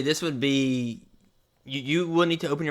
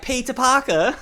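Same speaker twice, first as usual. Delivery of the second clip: loud, high British caricature; mock British accent; 12 semitones higher, 4 dB louder than usual. Friend imitating British memes, loud mock British accent. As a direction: belt it out in exaggerated British. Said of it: "British people be like".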